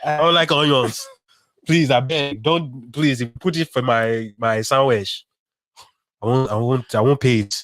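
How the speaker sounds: put-on low Nigerian-accented customer complaint; Lagos accent. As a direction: plead in a mimicked Lagos accent. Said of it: "it's like they're still in Lagos".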